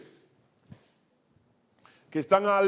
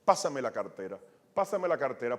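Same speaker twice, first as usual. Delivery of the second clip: thief's demand; 5 semitones lower than usual. Retold or imitated. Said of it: "¿Por qué el ladrón me decía".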